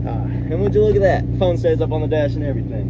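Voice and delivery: high, delighted exclamation; suddenly pleased with the phone mount; pleasantly surprised. Real, not acted. Pleased discovery in the truck.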